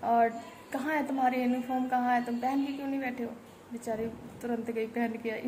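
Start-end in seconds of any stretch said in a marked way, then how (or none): 0.0-3.3 mock teacher scolding, a bit higher and faster at the end; lightly mocked scolding from the class teacher; imitating the teacher's scolding. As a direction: play the strict online teacher telling a kid off. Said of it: "कह रहा है".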